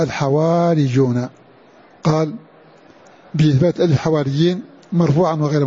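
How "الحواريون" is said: "الحواريون" slowly, holding the long aa after waw; elongated alif. Shown as a demonstration. Teacher showing the alif is fixed, "الحواريون" with a slow, stretched aa. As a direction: draw out the aa in "الحواريون". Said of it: "ألفها ثابتة".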